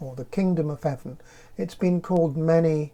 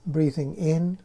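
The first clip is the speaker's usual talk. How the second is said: calm, unhurried meditation voice with long pauses; guided meditation; 4 dB quieter than usual. Acted. Leads a guided breathing meditation.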